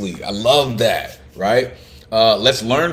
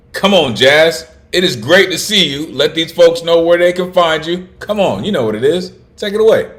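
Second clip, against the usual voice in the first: loud, high emcee hype; hype host call-out; 7 semitones higher, 5 dB louder than usual. Real, not acted. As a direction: pump up the crowd for the next act. Host calling the poet up.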